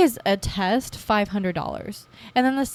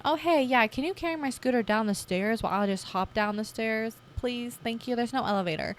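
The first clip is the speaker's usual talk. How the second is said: sweet polite asking; 2 semitones higher, 5 dB quieter than usual. Retold or imitated. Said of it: "the same thing going down".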